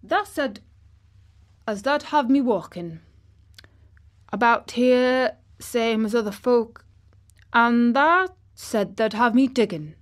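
put-on high, loud boy putting on Yorkshire; triumphant attempt at Yorkshire dialect; exultant Yorkshire. A narrator's reading. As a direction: crow it in broad Yorkshire. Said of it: "spoke exultantly to Dickon in his best Yorkshire".

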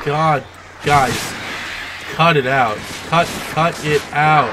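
loud, exasperated scolding; annoyed shouting. Real, not acted. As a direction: tell them off loudly. Scolding enemies attacking him.

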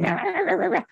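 high, wordless mock fuming; whipped-up grumbling noise. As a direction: imitate someone stewing, a high babbling growl. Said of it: "You could get all whipped up".

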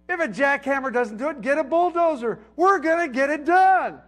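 mock dad's can-do bark; building contractor bluster. Voicing dad's contractor mindset.

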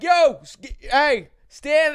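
loud excited hello; excited greeting. Retold or imitated. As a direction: call out his name across the bar.

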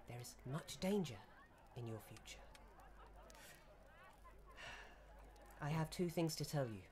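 a hint of a mysterious old woman foretelling doom; ominous old seer. Granny's prophecy.

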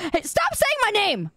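high-pitched whiny complaint; mock exasperation. Streamer to chat spamming the name, mock exasperation. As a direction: protest like you're being pestered.

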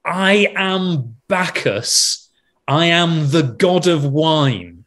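slow, drawn-out proclamation as Bacchus; shouted god of wine. Retold or imitated. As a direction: proclaim it like a drunken wine god, taking your time. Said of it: "he shouted".

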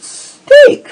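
shrieked, stretched out; high shout. Pretend. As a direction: scream it way up high.

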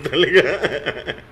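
breaking into laughter, high and loud; laughing. Real, not acted. Player cracking up at his own joke, laughing. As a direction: crack up through drawn-out words.

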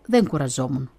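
usual speaking voice

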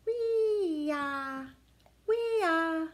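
high, loud screeching eagle call; eagle cry. Acted. Teacher voicing eagle for kids, high screech.

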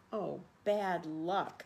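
slow, gentle sympathy; kindly commiserating chipmunk; sympathizing. Acted. Chipmunk comforts Possum after the flood, slow and gentle. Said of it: "the chipmunk sympathized".

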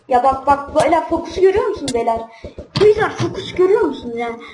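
mock-outraged gamer; indignant laughing complaint. Real, not acted. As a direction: protest at the cheaters. Annoyed at players focusing him.

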